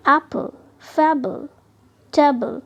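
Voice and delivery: एप्पल, फेबल, टेबल slowly, each in two beats; divided before LE. Shown as a demonstration. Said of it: "Divide the one letter before the L E". (एप्पल, फेबल, टेबल को दो हिस्सों में धीरे बोलें)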